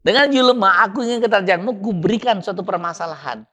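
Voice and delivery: voice of God. Retold or imitated. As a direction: announce it like a verdict from above. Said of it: "Padahal Allah katakan".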